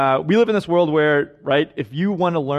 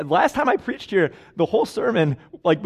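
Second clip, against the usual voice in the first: ordinary delivery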